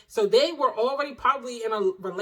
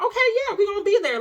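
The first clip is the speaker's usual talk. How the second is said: mocking parents; 12 semitones higher, 6 dB louder, faster than usual. Mocking parents' casual agreement.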